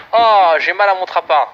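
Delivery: slow, hammed-up groan of defeat; slow comic moaning over the loss; drawn-out lament. Real, not acted. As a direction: stretch it out like a mock wail. Laments losing the match.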